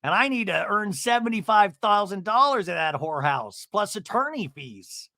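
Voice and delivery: lightly hammed-up mother's rant; Shannon. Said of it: "And then Shannon goes".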